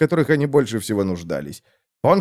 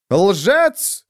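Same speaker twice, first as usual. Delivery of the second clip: much higher furious shriek; 9 semitones higher than usual. Acted. Miesner shrieking at von Volgen while swinging. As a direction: screech the accusation. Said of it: "взвизгнул Плашке Миснер".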